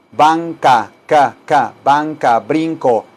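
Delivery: "ca, ca" as separate hard k syllables; C sound demo. Shown as a demonstration. Teacher compares sounds using "brinco", crisp hard C. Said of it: "la C de la palabra brinco".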